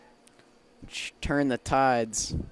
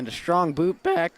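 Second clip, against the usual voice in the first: loud, higher call that cracks; 7 semitones higher, 7 dB louder than usual. Real, not acted. Announcer calling a strong boot back, voice cracking. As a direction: let the voice crack mid-call. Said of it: "I voice crack".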